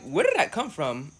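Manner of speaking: "where did that come from" with the Ds tapped like Rs; R sound for D. Shown as a demonstration. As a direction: run "where did that" together on rolled R-like taps. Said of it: "do y'all hear that R sound?".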